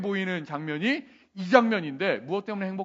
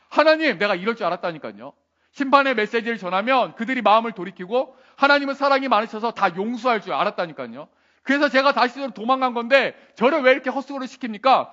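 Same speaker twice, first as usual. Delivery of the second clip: louder, higher acted complaint to God; angry protest; 4 semitones higher, 6 dB louder than usual. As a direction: protest indignantly as the aggrieved prophet. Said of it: "그러면서 막 화를 냅니다". (따지듯 화내는 요나 연기)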